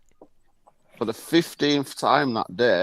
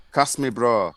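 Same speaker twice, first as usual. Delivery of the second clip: imitating Bradford street talk; Bradford accent; 3 semitones lower than usual. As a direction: mimic how Bradford people speak. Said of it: "in Bradford, people talk like this".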